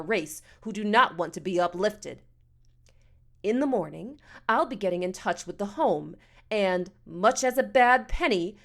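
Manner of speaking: lightly voiced indignant matron; a touch of pompous, measured scolding; haughty, fed-up woman. Missus Amos lectures the boy.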